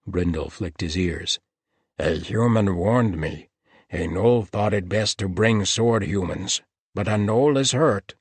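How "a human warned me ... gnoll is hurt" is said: gnoll creature asking in sudden concern; worried gnoll. A narrator's reading. Gnoll learning a gnoll is injured, alarmed.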